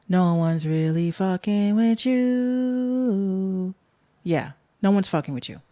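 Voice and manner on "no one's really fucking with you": drawn-out mocking sing-song; slow taunt. Real, not acted. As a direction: stretch it out to rub it in. Taunting after like count.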